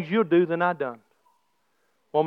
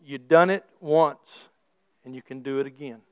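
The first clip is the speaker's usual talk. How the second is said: quiet prayer; 4 semitones lower than usual. Retold or imitated. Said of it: "I said".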